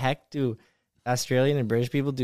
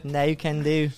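put-on British refusal; British accent; 3 semitones higher than usual. Shown as a demonstration. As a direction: try it in a mock British accent. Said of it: "with a British accent".

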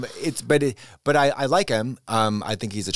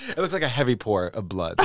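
shout. Real, not acted. Gross-out topper, shouted.

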